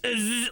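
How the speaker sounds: short buzzing noise; imitated clipper slip. Customer picturing the barber sneezing, imitated buzz. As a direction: mimic clippers jolting with a sneeze. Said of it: "that they'll sneeze".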